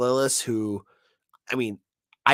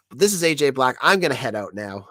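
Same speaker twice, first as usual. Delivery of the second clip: stuffy nose from a cold; nasal sick voice. Real, not acted. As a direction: talk through a blocked nose. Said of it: "my nasally, sick voice".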